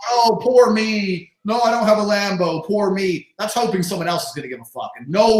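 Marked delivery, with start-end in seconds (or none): 0.1-3.3 slow, whining "poor me", higher and louder; mock self-pity. Mocking men who wait to be rescued, mock whine. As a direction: drag out "poor me" like a sulking child.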